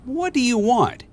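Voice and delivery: suspicious Shrek. A narrator's reading. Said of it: "he asked".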